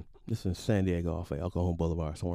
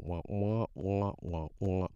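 dull, repeated "womp" noise; imitated womping; 2 semitones lower, 5 dB quieter, slower than usual. Son zoning out during father's car talk, womping. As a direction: mimic a droning womp. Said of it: "I just go".

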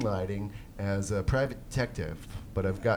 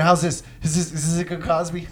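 eager show-off, louder and a bit higher; mocking co-host; 4 semitones higher, 3 dB louder than usual. Host mimicking co-host practicing on his girlfriend, eager mocking voice. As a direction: pester someone for approval, mock-excited. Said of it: "Danny probably sits around all week".

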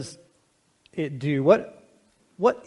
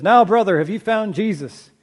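loud, higher preacher opening hard on the address; insistent preacher; 5 semitones higher, 7 dB louder than usual. Acted. Preacher questions man after longer dunking, insistent. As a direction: press him again as a hammed-up preacher.

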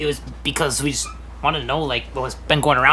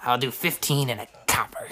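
whispered bid; 7 semitones lower, 8 dB quieter than usual. Acted. Bidder offering a copper more to the auctioneer, in a whisper. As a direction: whisper it, very soft. Bidder lowballs under his breath.

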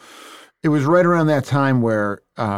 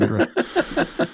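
very high-pitched mock eagerness; retold, squeaky-high bluff; overeager claim. Acted eager claim at an audition.

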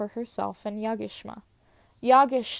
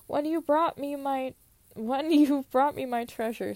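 laughing through a line; 3 semitones higher, 3 dB louder than usual. Real, not acted.

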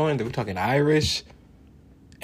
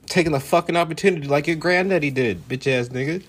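a cocky self unbothered by critics; mock defiant boast; 6 semitones higher than usual. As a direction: throw it back in their face. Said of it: "and I'd be like".

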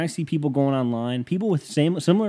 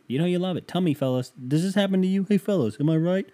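high-pitched hammy appeal to the fellas; mock showman banter; 8 semitones higher than usual. Comic griping to the fellas about his girlfriend, hammed-up showman banter. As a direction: play it up like a hack comic working the room.

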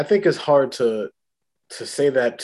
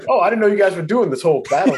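high, loud mock-innocent surprise; Vision; 8 semitones higher, 5 dB louder than usual. Vision chiming in late on the Thanos fight, mock-innocent. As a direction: put on a high, oblivious hero voice. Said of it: "Vision could have chimed in".

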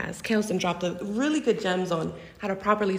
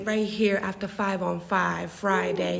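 announcer voice. Acted. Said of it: "Feature style, glow, glow style".

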